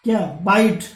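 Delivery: बाइट stressed, ai glide, final t; say bite. Shown as a demonstration. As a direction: demonstrate बाइट loudly. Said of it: "बाइट means क्या होता है". (बाइट का साफ उच्चारण)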